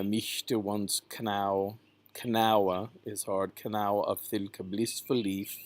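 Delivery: "canawa" as "kuh-nah-wuh", k sounded; "mischte" with sh, "leaf" as leef; Middle English pronunciation. Shown as a demonstration. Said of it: "talk about the pronunciations".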